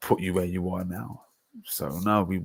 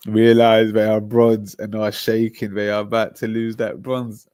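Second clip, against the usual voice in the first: mocking jeer; 6 dB louder than usual. Real, not acted. Mocking rival fans.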